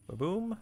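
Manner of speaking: high little "ba-boom" blast; mock explosion. Gamer voicing the reactor blast, playful mock boom. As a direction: pop it out like a toy explosion. Reactor ignition sound effect.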